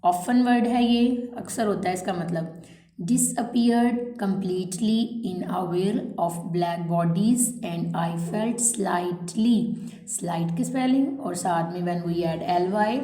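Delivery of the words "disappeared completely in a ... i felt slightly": slow, spaced-out dictation read; measured classroom dictation pace. Shown as a demonstration. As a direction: read each phrase slowly so students can write it down. Teacher reads dictation aloud.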